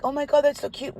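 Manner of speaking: high-pitched cooing over dogs; gushing. Retold or imitated. Woman surrounded by five little dogs, gushing. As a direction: coo with delight, voice lifted high.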